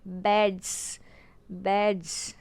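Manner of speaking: "बेड्स" said as bedz, each separately; buzzing z ending. Shown as a demonstration. Teacher repeating the example, "बेड्स" ending in buzzed z. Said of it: "ज़ेड का buzzing sound आ रहा है".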